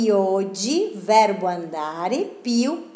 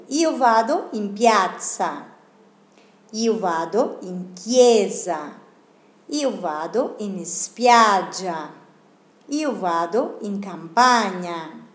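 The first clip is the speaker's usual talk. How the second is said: teacher's model reading; 2 semitones lower than usual. Shown as a demonstration. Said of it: "Otra vez".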